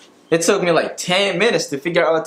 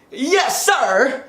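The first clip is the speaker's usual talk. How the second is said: higher, eager call-back; congregation reply; 9 semitones higher than usual. Retold or imitated. Churchgoer answering the pastor, higher eager reply. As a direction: answer the preacher with fire. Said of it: "They just be like".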